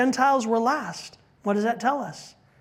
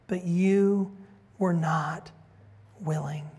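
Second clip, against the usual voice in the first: lament. Acted. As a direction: mourn over the city, sinking to a hush. Jesus laments over Jerusalem.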